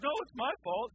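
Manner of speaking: lightly voiced apologetic waiter; waiter politely insisting. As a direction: play the flustered waiter taking the blame. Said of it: "He goes".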